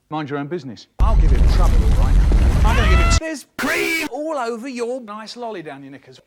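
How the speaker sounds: put-on cheeky kid voice, shouting at the end with a laugh; mock cheeky kid. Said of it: "And he goes".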